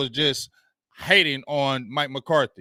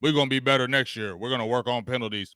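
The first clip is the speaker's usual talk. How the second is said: mocking the coach; 5 semitones lower, faster than usual. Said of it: "your ass still sitting here talking about".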